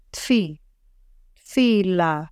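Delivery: תפילה with the taf and fe run together; blended tafila. Shown as a demonstration. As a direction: blend תפי straight into לה. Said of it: "it's easy to blend the taf and the fe".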